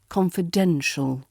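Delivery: confidential with weight on DEN, then falling; stress on DEN. Shown as a demonstration. Teacher sums up the tip, confidential stressed on DEN. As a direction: make DEN the peak of confidential. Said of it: "emphasis here focuses on the den".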